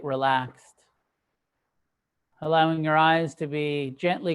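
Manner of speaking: measured meditation guidance with long pauses; unhurried meditation teacher, phrase by phrase; guided meditation. Acted. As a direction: guide them gently into stillness, leaving space between phrases. Leads a sitting meditation.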